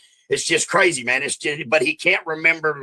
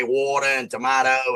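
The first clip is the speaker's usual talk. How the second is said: sister's Australian pronunciation of "water and tomato"; Australian accent. Retold or imitated. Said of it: "my sister's words were fully Australian".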